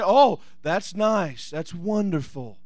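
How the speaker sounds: deliberately unimpressed, dying away; unexcited reaction. Acted. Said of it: "They don't just sit down there and say".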